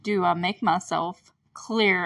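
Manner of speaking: lightly voiced stern sheriff, drawn out; intimidating Hopper. Hopper looming over the kids, slow mock intimidation. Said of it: "looks down at them".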